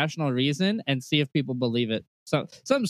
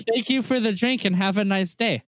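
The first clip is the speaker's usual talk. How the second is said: mock polite reply; 7 semitones higher than usual. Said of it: "I say".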